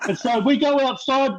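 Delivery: words still caught in laughter; laughing. Real, not acted. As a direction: keep laughing through the line. Laughing while telling the story.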